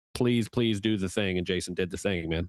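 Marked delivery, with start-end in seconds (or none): 0.2-1.4 put-on panicked, pleading voice. Retelling watching the draft and panicking, pleading: retelling panicked pleading. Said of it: "you're just panicking".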